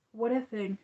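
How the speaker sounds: yawning mid-sentence. Real, not acted. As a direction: talk through a yawn. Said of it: "that yawn came out of nowhere".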